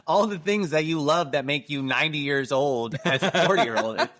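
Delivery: laughing through the words; helpless with laughter. Real, not acted. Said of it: "you're legitimately crying".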